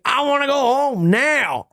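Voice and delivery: high, hammed-up childish whine; whiny tantrum. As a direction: whine like a spoiled star. Bam whining to go home.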